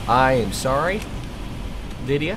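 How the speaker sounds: mock apology. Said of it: "I'm not sorry".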